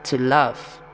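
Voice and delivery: cheery sinister quiz host; game show host. Acted. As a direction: play the smug game show host teasing contestants. Narrator voices game show host.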